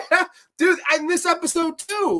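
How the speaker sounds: high laughing relief; nervous laughing relief. Real, not acted. Laughing after bug scare.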